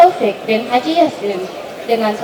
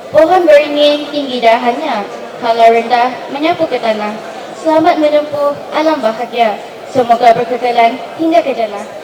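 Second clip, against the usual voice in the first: pantun recital. Shown as a demonstration. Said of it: "terimalah serangkap pantun istimewa".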